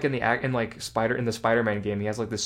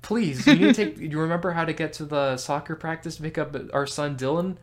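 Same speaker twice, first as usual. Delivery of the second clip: mock wife pleading; 4 semitones higher than usual. Wife voiced in joke.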